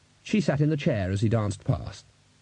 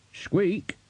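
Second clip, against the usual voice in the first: squeaky rat voice; 8 semitones higher than usual. Acted.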